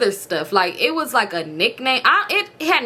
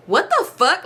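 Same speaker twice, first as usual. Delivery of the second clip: higher-pitched indignant disbelief; retold anger; 6 semitones higher, slower than usual. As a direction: replay being hot with anger. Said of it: "Like, I was hot".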